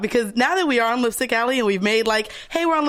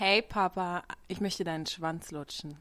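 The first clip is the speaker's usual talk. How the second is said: mock seductive tone, lower and quieter; 5 semitones lower, 12 dB quieter than usual. Saying a line in german on request, asked to be sexy: put-on sexy voice. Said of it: "That shit sounds sexy".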